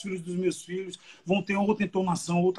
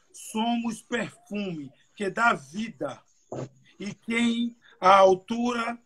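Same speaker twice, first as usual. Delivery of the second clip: raised, slowed Bible reading; scripture reading; 3 semitones higher than usual. Acted. Preacher reading the verse aloud to young people, solemn reading voice.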